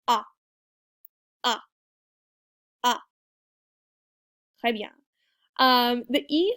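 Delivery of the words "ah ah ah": "Ah" loose and long; relaxed open "Ah"; loose French A. Shown as a demonstration. Teacher repeating the A with the class, loose and long. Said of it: "So just do that again with me".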